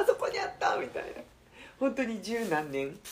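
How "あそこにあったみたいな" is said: breathy whispered aside; whispering. Retold or imitated. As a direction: drop to a whisper. Whispered aside after laugh.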